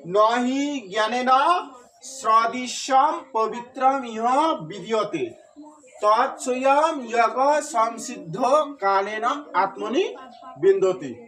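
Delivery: slow, measured reading of the Sanskrit verse; verse recitation. Shown as a demonstration. Teacher reading the verse to students, slow and measured. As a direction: read the shloka out slowly, word by word. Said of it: "এখন দেখো".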